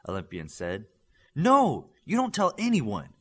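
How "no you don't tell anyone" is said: firm, louder order; commanding. A narrator's reading. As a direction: lay down the law to a teammate. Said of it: "Darkspeed commanded".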